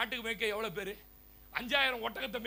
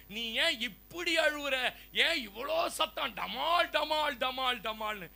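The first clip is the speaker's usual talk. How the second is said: plastic gate mocking; 2 semitones higher, slower than usual. Plastic gate teasing the iron being hammered, lightly mocking. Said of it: "plastic கேட்டுதான்".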